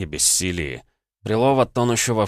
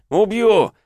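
much higher, louder final yell; furious scream; 14 semitones higher, 7 dB louder than usual. Acted. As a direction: scream the threat at full rage. Threat repeated, rising rage.

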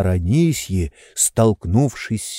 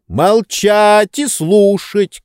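high, slow barked order; shouted command; 10 semitones higher, 4 dB louder, much slower than usual. A narrator's reading. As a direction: shout her down. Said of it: "крикнул Обломов".

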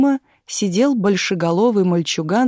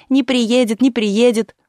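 higher, loud sing-song taunt; shouted taunt; 5 semitones higher, 4 dB louder, slower than usual. A narrator's reading. Boy keeps shouting the taunt from the fence. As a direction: keep chanting it at her. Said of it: "продолжал безнаказанно кричать".

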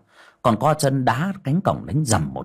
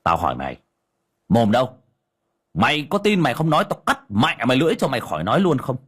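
scolding shout; 5 semitones higher, faster than usual. Acted. Cậu Tẩy scolds the ghost in the medium, rising fast shout. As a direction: bark the threat at the cowering ghost. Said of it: "mà quát".

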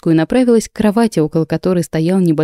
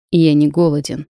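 cold; 3 semitones lower than usual. Acted. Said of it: "холодно произнёс король".

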